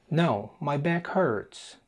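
very slow, careful dialogue line; slow model answer. Shown as a demonstration. Teacher modelling the answer slowly. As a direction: stretch out each word for learners.

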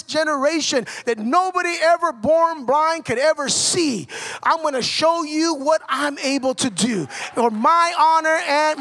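driving, emphatic sermon delivery; preaching. Acted. Preacher promising God's power in action, emphatic preaching. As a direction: preach it with building force.

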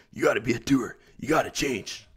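lightly voiced Tony Robbins, punchy coach push on gotta; a hint of a hyped motivational guru, leaning on gotta; Tony Robbins impression. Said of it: "That was a pretty good Tony Robbins voice".

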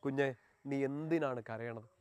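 soft, slow, caring voice of Jesus; tender question. Acted. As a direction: gently ask the child why it cries. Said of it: "അവൻ നിന്നോട് ചോദിക്കുകയാണ്".

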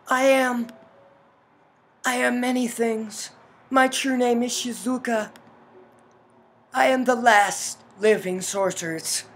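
measured revelation with weighty pauses; sorceress mother, solemn. Acted. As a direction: play an ancient sorceress revealing herself. Voices game's sorceress mother.

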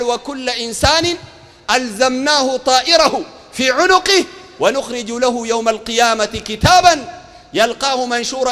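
slow, stretched verse chant; measured delivery of holy text; Quran recitation. Acted. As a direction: recite scripture deliberately, phrase by phrase.

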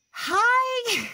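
high, loud, laughing hello. Real, not acted. Greeting the viewers, a loud laughing hi. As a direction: burst out a delighted hi with a laugh.

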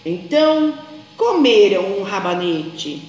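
put-on lively storybook reading for small children; story narration. A narrator's reading. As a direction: tell it like a bedtime tale, animated.

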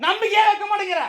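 high-pitched exasperated outburst, loud at first; angry yelling. Real, not acted. Husband protesting his wife's distrust, angry yelling. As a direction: burst out loud, then stay high and aggrieved. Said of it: "எதுக்கு கத்துறீங்க இப்படி".

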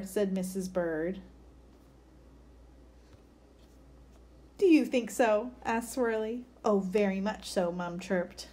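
put-on lively picture-book read-aloud for kids; story reading. A narrator's reading. Teacher reading a bird story to children, lively. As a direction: read it like story time for a class.

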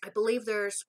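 talking while chewing; words around food bite; mouth full of chocolate. Real, not acted. Seen 2: bit the chocolate piece at -1, lips working while holding it.

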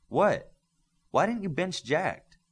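shocked. Acted. Shocked teammate wasn't benched.

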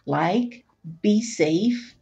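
gentle, expressive picture-book reading; reading to children. A narrator's reading. Host reading picture book to children, storytime voice. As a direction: read it like storytime for little ones.

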